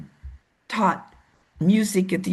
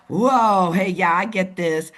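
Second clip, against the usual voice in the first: excited elder; 2 semitones lower, 3 dB louder than usual. Retold or imitated. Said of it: "they're more like this".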